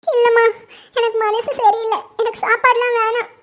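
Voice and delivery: weepy, broken refusal of food; grieving mother turning away her dinner, teary; tearful refusal. Acted. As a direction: sob it out, too upset to eat. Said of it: "நீங்க ஏன் அழுதுட்டு இருக்கீங்க".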